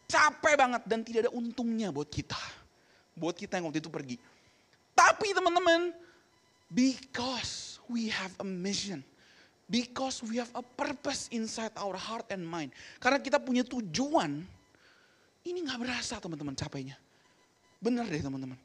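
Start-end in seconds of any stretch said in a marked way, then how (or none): 4.9-12.7 slow, weighty English phrase; slow solemn declaration; solemn emphasis. Real, not acted. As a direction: let the mission sink in. Preacher's solemn climax in English.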